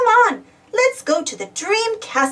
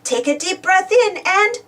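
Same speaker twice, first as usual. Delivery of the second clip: slow and louder, drawn out; slow breathing cue; 4 semitones higher, 4 dB louder, slower than usual. Shown as a demonstration. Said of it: "super blow the windy cloud away".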